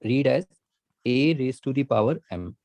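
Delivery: slow, spelled-out reading of the term; careful dictation pace; slow reading demo. Shown as a demonstration. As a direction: read it out slowly for students. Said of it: "तो हम इसको read कैसे करेंगे?".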